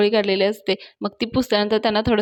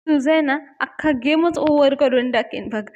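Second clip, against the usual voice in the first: mildly irritated retold threat, raised pitch; mock angry scolding; 4 semitones higher than usual. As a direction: tell him off without really shouting. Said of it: "ओरडतात पाण्यावर आणि म्हणतात". (चिडल्यासारखी हलकी दमदाटी)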